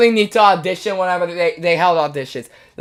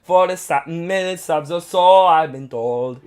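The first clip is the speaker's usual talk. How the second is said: put-on Italian accent. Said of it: "How's that Italian accent, chat?".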